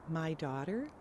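soft, quivering with grief; choked up and trembling. Acted. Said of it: "with a quivering voice".

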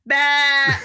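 put-on goat bleat in a flat Boston accent; high, flat Boston-accented bleat; Nelson. Imitating a singer's adult goat, flat Boston bleat. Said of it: "in his flat Boston-y accent".

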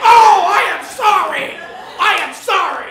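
loud, high, overdone gasping apology for a slip; mock horrified apology. Swearing on morning TV, apologizes in a loud mock panic. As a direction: ham up the shocked oh and the sorry.

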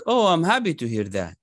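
light cheerful lift; happy. Shown as a demonstration. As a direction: lift the voice for good news. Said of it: "If it is a good thing".

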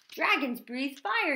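loud, high, slow yell; coach's yell. A narrator's reading. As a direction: yell the rule at the class. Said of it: "yelled the coach".

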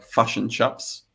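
fush and chups with clipped Kiwi vowels; broad Kiwi accent. Shown as a demonstration. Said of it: "the most Kiwi version is".

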